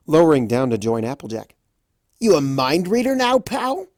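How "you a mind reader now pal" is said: higher, louder sarcastic taunt; mocking jab. A narrator's reading. Rainbow taunting Raspberry, sarcastic and loud. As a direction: needle him with sarcasm. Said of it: "Rainbow shouted from above".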